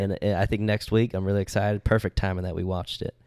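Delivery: put-on Southern storytelling; playful Southern US accent. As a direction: tell it with a Southern twang. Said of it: "tell the story in an accent".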